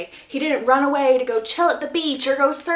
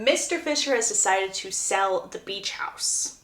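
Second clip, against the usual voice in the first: usual speaking voice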